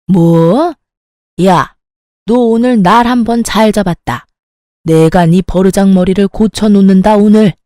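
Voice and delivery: 버럭 소리 지르는 시어머니; 며느리를 잡을 듯 크게 호통치며. Acted. 시어머니가 버르장머리 고치겠다고 소리침. (버르장머리 고치겠다며 며느리에게 소리치는 시어머니, 화난 고함)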